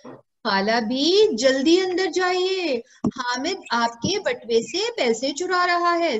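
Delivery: lightly acted child sounding the alarm; urgent alert. Amina calling her aunt to hurry inside, urgent alert.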